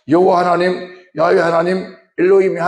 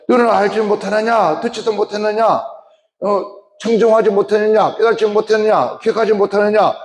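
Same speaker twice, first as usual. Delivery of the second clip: raised rebuking voice of God; God's stern rebuke, higher and firmer; voicing God rebuking; 5 semitones higher than usual. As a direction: speak as God scolding his people. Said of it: "하나님의 말씀이 그렇게 말합니다".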